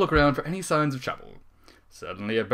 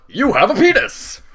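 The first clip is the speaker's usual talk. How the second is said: louder, higher, slow declaration; loud announcement; 10 semitones higher, 11 dB louder than usual. Acted. Narrator reads the frosting aloud, loud and slow. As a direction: proclaim it. Reading absurd frosting message.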